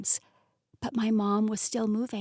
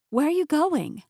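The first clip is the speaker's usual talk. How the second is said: anxious call; 6 semitones higher, 5 dB louder than usual. Acted. Daughter calling after leaving mother.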